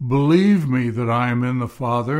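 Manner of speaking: "Believe" punched at the start; stress on BELIEVE. Real, not acted. Preacher reading Jesus' words to Philip, stress on "Believe". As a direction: hit "Believe" hard, then ease off. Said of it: "read that with the emphasis on that word believe".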